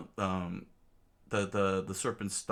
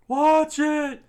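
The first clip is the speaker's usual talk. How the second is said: high, loud falsetto scream; piercingly high warning shout; Usopp; 12 dB louder than usual. Acted. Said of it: "Usopp screamed".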